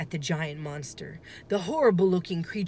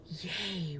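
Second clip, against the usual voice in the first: much softer tiny yay; whispered cheer; 12 dB quieter than usual. A narrator's reading. Girl cheering quietly in hiding, a whispered yay. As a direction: cheer under your breath. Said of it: "whispered Annie".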